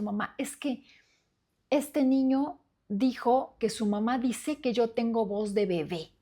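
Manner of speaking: a hint of a hurt child complaining; upset child quote. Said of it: "muy enojado y me dijo". (hijo enojado contándole a mamá, un poco infantil)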